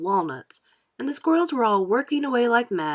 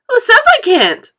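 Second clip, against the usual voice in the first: much higher, loud defiant yell; shout; 13 semitones higher, 13 dB louder than usual. A narrator's reading. Veruca defies Wonka with a high loud yell. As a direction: scream the challenge. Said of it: "shouted Veruca".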